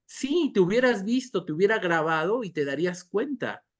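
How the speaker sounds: acted insistence starting high-pitched; insist, as in a re-enacted argument; insistent contradiction. Witness answers the disbelieving person, insisting.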